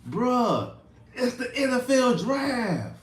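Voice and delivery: high laughing "bruh"; laughing disbelief. Real, not acted. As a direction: laugh it out, can't believe it.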